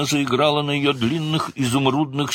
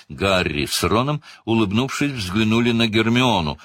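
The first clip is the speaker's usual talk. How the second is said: usual speaking voice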